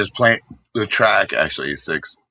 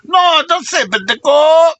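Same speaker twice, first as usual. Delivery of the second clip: much higher and louder, cracking up mid-yell; laughing shout; 5 dB louder than usual. Real, not acted. Streamer cracking up at his own joke, laughing shout.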